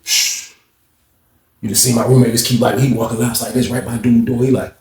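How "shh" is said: hush. Retold or imitated. Hushing near the phone.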